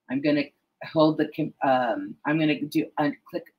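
stumbling over the words, restarting; halting false starts with a filler um; tongue-tied. Real, not acted. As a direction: trip over the phrase, stop and correct yourself. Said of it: "why I'm so tongue-tied today".

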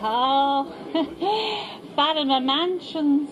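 laughing at the address, then drawn out slowly; mocking laugh. Dealer laughing at Paisley's posh address. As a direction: scoff before saying the name slowly.

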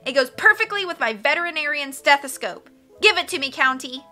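high, loud, insistent whine of a brat; bratty demand. A narrator's reading. Carmelita demanding a necklace from Olaf, bratty demand. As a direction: insist on getting your way. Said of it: "Carmelita demanded".

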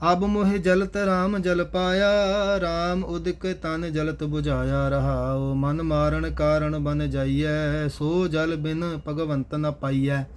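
measured Gurbani chant-reading with drawn-out line endings; scripture recitation. Acted. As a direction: recite each verse slowly and evenly. (Gurbani ਦਾ ਸਹਿਜ ਪਾਠ)

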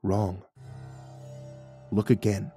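low, soft and unhurried; patient. A narrator's reading. Guide telling narrator to look again, patiently. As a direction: correct him patiently, voice kept down. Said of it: "He patiently replied".

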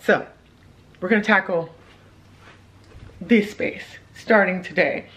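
talking with a retainer in; slight lisp, retainer in mouth. Real, not acted. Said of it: "excuse the lisp".

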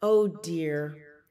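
high, loud motherly bear; sigh, then ask the chick with lifted pitch; sighed concern. A narrator's reading. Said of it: "she sighed".

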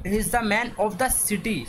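very slow, every word spaced; slow dictation. Shown as a demonstration. Teacher rereading question six to students, very slow. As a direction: read the sentence out carefully for the class.

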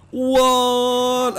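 high, slow stretched whoa; long whoa. Real, not acted. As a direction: let the whoa hang in the air. Mid-air whoa.

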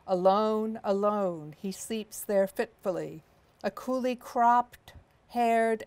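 slow, weighty poem recital; poem reading. Acted. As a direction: read it slow, savouring each image. Reads a poem aloud.

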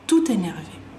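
"Tout énervé" run together as tou-ténervé; joined-up liaison. Shown as a demonstration. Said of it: "como que lo uno". ("Tout énervé" unido en una sola palabra)

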